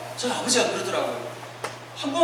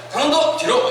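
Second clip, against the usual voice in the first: high, raised mock order; acted classroom command, pitched up; teacher's command; 6 semitones higher, 4 dB louder than usual. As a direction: call out a punishment like a teacher. Teacher ordering pupil to back.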